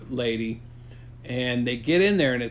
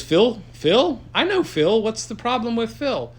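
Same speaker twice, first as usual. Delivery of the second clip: high goofy character; 7 semitones higher than usual. Acted. Friend asks the hero about Phil, high and goofy. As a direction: pitch it up and sound startled. Character voiced in silly retelling.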